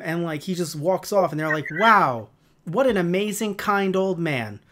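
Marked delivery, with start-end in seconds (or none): 1.8-4.6 drawn-out, pitched-up mock admiration; mock awe. Actors praising the crude puppet, mock awe. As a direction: gush as if you heard nothing rude. Acting awed reaction to crude rant.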